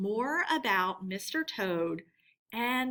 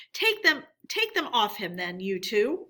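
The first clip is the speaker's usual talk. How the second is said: ordering; 4 dB louder than usual. Acted. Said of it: "ordered the badger".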